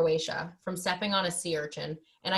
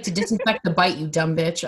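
louder, scornful put-down; mock annoyed ex; 5 dB louder than usual. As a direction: talk down like he's fed up. Imitating ex insulting her.

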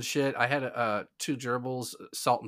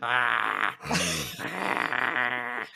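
play growl. Retold or imitated. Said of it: "in each other's face going".

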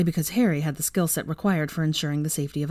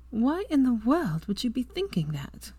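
panting; 7 semitones higher than usual. A narrator's reading. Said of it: "she panted".

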